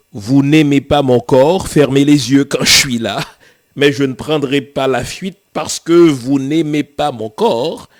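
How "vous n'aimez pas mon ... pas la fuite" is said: louder defiance. Real, not acted. Defiant address to critics.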